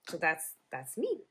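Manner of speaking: talking around pins held in the lips; mumbled with pins in mouth. Real, not acted. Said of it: "I got a pin in my mouth".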